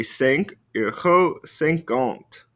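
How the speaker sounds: cinq euros cinquante said slowly and clearly; slow model. Shown as a demonstration. Teacher modelling the price answer slowly. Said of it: "So for five fifty".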